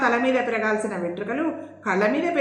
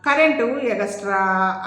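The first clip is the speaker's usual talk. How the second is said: drawling; slower than usual. Acted. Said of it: "అందావిడ సాగదీస్తూ".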